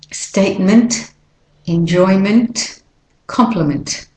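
tags 1 only; weak ending. Shown as a demonstration. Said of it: "the E is a schwa".

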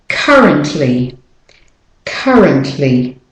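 CURRENTLY said slowly with a weak middle vowel; careful model pronunciation. Shown as a demonstration. Teacher models the first -ly word for learners, careful demonstration. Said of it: "let's start with the first one".

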